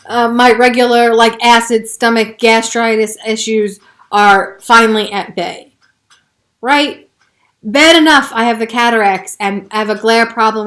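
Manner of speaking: heated ranting. Real, not acted. Ranting to viewers about her health problems, heated. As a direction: keep hammering each complaint. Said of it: "I feel emotional about it right now".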